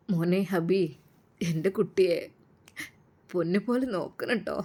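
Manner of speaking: a touch of tears, soft and pleading; a father's mild, teary request; gently holding back tears; tearful plea. Acted. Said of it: "കരഞ്ഞുകൊണ്ടാണ് അത് പറഞ്ഞത്".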